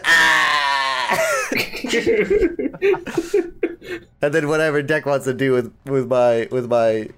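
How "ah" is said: mock pain cry. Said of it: "he goes back to".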